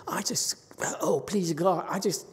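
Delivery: a hint of a pleading old woman; desperate devotee. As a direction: imitate someone begging to reach the Pure Land. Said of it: "and they say".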